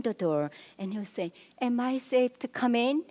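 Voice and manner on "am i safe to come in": higher, tentative-joking question in a mock husband's voice; imitating cute husband. Husband asking his angry wife to come back in, playfully cute imitation. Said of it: "trying to be humorous and cute".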